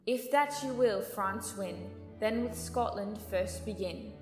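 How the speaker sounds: quietly recited saying. Acted. Adviser quoting an old saying to the king, quietly recited. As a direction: recite the old proverb softly.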